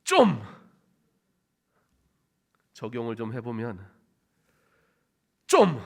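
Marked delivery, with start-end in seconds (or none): 0.0-0.4 one short, loud Gyeongsang burst; Gyeongsang dialect. Shown as a demonstration. Preacher demonstrates the dialect word, loud Gyeongsang accent. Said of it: "경상도 말로 하면". 5.5-5.8 one short, loud Gyeongsang burst; Gyeongsang dialect. Shown as a demonstration. Preacher demonstrates the dialect word, loud Gyeongsang accent. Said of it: "경상도 말로 하면".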